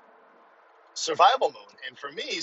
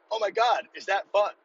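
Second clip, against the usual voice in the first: excited; 7 semitones higher than usual. Real, not acted. Repeats his delight.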